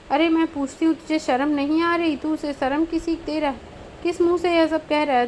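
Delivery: mother's indignant rant at her son; angry tirade. Acted. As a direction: scold him hard for his shamelessness.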